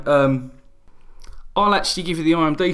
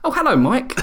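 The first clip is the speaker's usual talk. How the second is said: put-on high, bright little girl's greeting; child voice; 11 semitones higher, 3 dB louder than usual. Dad imitating his daughter greeting the mic, high and laughing. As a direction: pitch it up like a toddler. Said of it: "daughter mishears mic".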